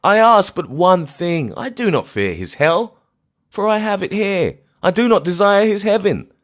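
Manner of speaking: high, loud desperate pleading; anguished plea. Acted. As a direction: beg to be buried beside them. Grief-mad old man pleading.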